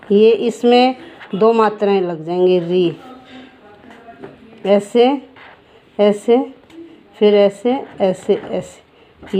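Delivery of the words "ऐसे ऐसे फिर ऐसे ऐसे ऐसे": slow tracing count. Shown as a demonstration. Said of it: "slow tracing demo".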